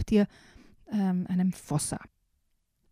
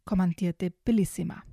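put-on lively storybook reading for small kids; reading to children. Host reading a children's book excerpt to young listeners, storybook voice. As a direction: read it like a bedtime picture book. Reads picture book aloud.

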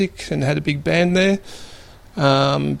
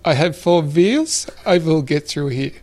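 put-on strong German accent. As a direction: quote him with a thick German accent. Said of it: "with his very strong German accent".

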